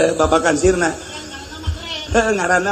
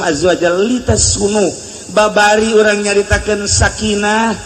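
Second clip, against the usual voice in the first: firm sermon voice, raised; preaching to congregation. Acted. Preacher to congregation, forceful sermon delivery. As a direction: preach the lesson to the faithful.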